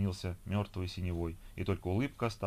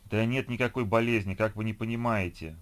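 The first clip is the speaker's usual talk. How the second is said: louder, insisting they listen; exasperated exclamation; 3 semitones higher, 5 dB louder than usual. Acted. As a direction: burst out in frustration. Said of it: "воскликнул Сергей".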